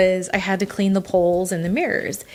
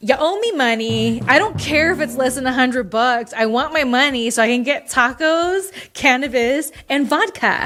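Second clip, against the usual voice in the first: comic demand; 4 semitones higher than usual. Real, not acted. Comic demand for money owed.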